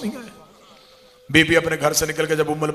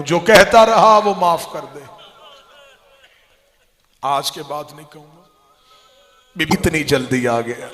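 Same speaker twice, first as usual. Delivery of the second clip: loud, wailing majlis recital building to a cry; grief-laden zakir's cry, loud and rising; impassioned preaching; 12 dB louder than usual. Acted. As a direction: pour it out to the mourners at full force. Majlis recital of Abbas and Zainab.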